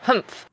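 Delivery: small indignant humph; short wordless grumble; imitated dog huff. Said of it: "be like".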